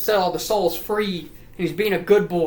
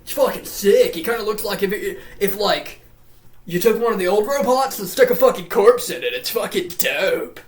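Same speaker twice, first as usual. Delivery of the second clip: higher-pitched, hyped-up dude voice; security dude; 4 semitones higher than usual. Retold or imitated. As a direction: play an excited dude showing off a find. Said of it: "the security dude's like".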